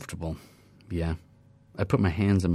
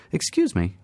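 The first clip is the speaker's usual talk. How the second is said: put-on young woman; 9 semitones higher than usual. A young woman speaks to narrator.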